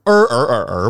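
儿儿儿儿 sung through all four tones. Shown as a demonstration. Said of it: "很有意思".

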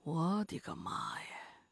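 slow breathy whispered dread; oh my god, whispered in horror; horrified whisper. A narrator's reading. Horrified narration aside.

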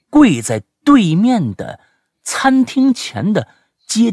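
animated, high-pitched storytelling, building suspense; dramatic story reading. Acted. Host reading a listener's scary night-chase story, dramatic and animated. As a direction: read the chase like a thriller.

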